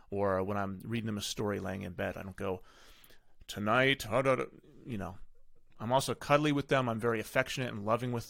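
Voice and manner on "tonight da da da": mock commanding tone. Shown as a demonstration. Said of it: "talk like that all the time".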